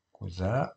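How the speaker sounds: "Cousin" avec un Z sonore au milieu. Shown as a demonstration. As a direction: say "Cousin" with a voiced z between the vowels. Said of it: "on entend Z". (« Cousin » prononcé avec le son Z)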